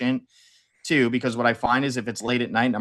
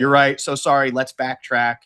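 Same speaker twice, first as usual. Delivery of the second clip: flat chatbot voice, a bit louder; robot voice; 4 dB louder than usual. Retold or imitated. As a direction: play the AI apologizing. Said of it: "talking like a robot".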